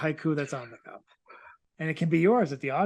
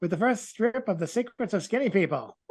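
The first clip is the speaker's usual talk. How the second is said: 1940s radio announcer. Acted. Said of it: "like a nineteen forties baseball announcer".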